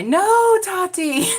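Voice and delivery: high, loud drawn-out mock quote; high-pitched meme voice; mock "No, Tati" line. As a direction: ham up the viral "No, Tati" catchphrase. Mimicking viral "No, Tati" quote.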